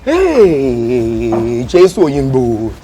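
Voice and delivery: slow exclamation from spicy burn; groaning at the heat; mouth on fire. Real, not acted. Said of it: "my mouth is on fire".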